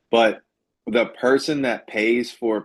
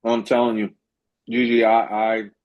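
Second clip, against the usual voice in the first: talking while chewing "I'm telling you, Gigi"; words pushed round a mouthful of food; mouth full. Real, not acted. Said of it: "excuse me, chewing my mouthful".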